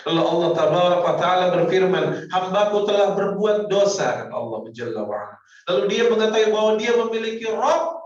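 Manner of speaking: loud, high preaching swell; preaching at full force. Acted. Preacher exhorting the congregation, loud and high. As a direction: drive the point home to the crowd.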